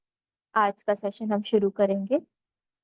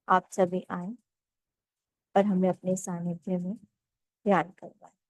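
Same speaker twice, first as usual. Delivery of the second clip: calm, measured meditation guide with long pauses; guided meditation. Acted. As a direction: ease them into stillness, phrase by unhurried phrase.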